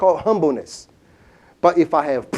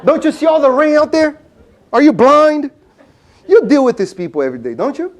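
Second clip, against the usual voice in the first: mock grouchy rant, higher and louder; grumpy retort; 7 semitones higher, 4 dB louder, faster than usual. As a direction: play a sour man snapping at a cheerful shopkeeper. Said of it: "he looks at him and says".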